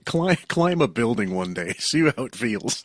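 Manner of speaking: laughing through a mocking dare; laughing taunt. Real, not acted. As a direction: tease him while laughing.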